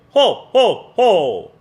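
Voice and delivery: booming "Ho, ho, ho!" from the belly; loud Santa laugh. Shown as a demonstration. Teacher booms a Santa laugh to show belly support. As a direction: belt "Ho, ho, ho!" like Santa Claus. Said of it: "I want you to loudly say".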